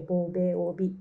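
ボベオビ with lips pressed and popping on each b; lip-forward demo. Shown as a demonstration. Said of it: "ボベオビって発音してみてもら".

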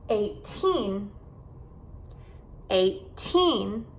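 put-on EIGHTEEN with a long TEEN; eight-TEEN, careful teacher's model; stress on final syllable. Shown as a demonstration. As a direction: lean on the end of EIGHTEEN. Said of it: "esses números com teen".

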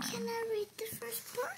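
breathy whispered request to mom. Real, not acted. Child whispering to mom asking to read. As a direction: whisper the question shyly. Child asks quietly during reading.

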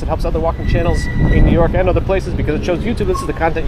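rushed, all in one breath. Real, not acted. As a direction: race through it without breathing. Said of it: "Almost ran out of breath on that one".

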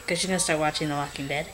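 hushed whisper. Real, not acted. Vlogger whispers to camera late at night.

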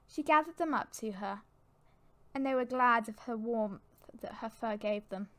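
measured, dramatic storybook reading; storyteller setting a tense scene; story narration. A narrator's reading. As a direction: narrate it evenly, with pauses between phrases.

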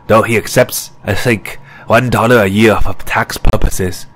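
lightly voiced professor, back to normal tone; easy, ordinary professorial tone. The speaker explains the teacher's wealth, lightly voiced professor. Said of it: "in a more normal tone".

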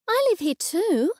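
high-pitched, bitterness barely held back; suppressed bitterness. A narrator's reading. Mother replying to her daughter's pity, stifling bitterness. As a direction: hold the bitterness out of your voice. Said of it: "trying to keep the bitterness out of my voice".

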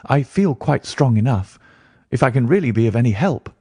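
willing client. Acted. Client offering to come to London, lightly voiced and willing.

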